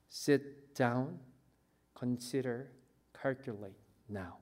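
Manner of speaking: Sit down said low and soft, rising gently, then slowing way down; soft, slow earnest counsel; quiet urging. Acted. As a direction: hush it down to a private appeal. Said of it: "라고 주님께서 말씀하세요".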